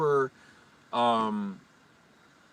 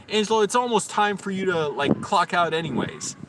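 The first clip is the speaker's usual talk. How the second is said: cowardly hedging; 7 semitones higher, 4 dB louder than usual. Retold or imitated. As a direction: imitate a manager dodging a direct order. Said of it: "what she said that was so cowardly".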